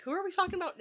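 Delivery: high, mildly baffled question; acted-out confusion. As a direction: play a listener who has lost track, voice lifted. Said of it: "You're gonna get confused".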